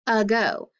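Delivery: "ago" said as uh-GO; schwa. Shown as a demonstration. Teacher recalling the earlier word for students, schwa "ago". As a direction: begin "ago" on a short uh. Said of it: "It makes that schwa sound".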